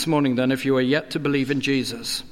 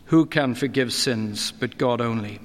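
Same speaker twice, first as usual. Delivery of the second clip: same question, lower and pondering; the preacher weighing the scribes' words, lower; lower reflective repeat; 4 semitones lower than usual. Shown as a demonstration. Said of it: "questioning his divine standing".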